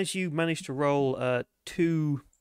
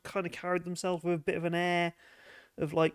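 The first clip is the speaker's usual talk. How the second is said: dancer's higher-pitched, scornful griping; disgruntled dancer; 6 semitones higher, 3 dB louder than usual. Acted. Dancer describing non-tipping customers to investigators, disgruntled. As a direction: describe them like an unimpressed club worker.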